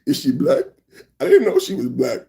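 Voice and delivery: lightly voiced, questioning inflection; a hint of mimicked politician's inflection; Trump. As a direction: lightly imitate his puzzled delivery. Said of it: "Trump added this inflection".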